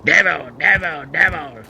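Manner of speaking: a hint of a fussy mother; Waterboy's mom. Mom warning her son about the devil, lightly voiced. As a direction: mutter devil like a fretful mom. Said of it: "like the Waterboy's mom".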